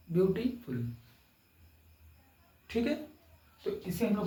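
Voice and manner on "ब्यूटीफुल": ब्यूटीफुल with its syllables set apart, ब्यूटी then फुल; three beats. Shown as a demonstration. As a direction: say ब्यूटीफुल piece by piece. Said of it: "तीन बार बोले आपने". (ब्यूटीफुल को हिस्सों में बोलें)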